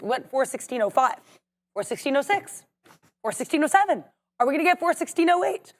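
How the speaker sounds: rising auction bid calls; auctioneer. Pretend. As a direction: call out the bids like an auction. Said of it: "I feel like an auctioneer".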